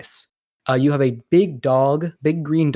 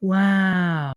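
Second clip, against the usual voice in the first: high, mock gasp and a hushed-awe "wow"; gasp, then draw out a wonderstruck wow; awed kids; 7 semitones higher than usual. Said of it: "You're like".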